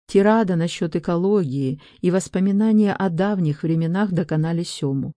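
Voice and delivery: ordinary delivery, nothing marked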